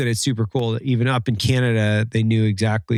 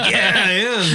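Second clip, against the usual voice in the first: put-on Canadian accent; 10 semitones higher, slower than usual. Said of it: "I can't do a Canadian accent".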